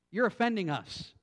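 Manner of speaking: mildly whining complaint; a touch of wounded whine; lightly mock an offended lawyer; whiny. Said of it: "I read it in a whiny voice".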